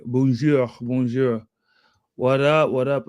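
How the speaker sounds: French-accented greeting. Shown as a demonstration. Welcoming viewers from Quebec, French accent. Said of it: "trying to get my French accent back".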